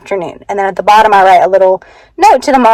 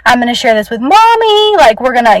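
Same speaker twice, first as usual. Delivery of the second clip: tender praise; 5 semitones higher than usual. Retold or imitated. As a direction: encourage her lovingly. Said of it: "I was like".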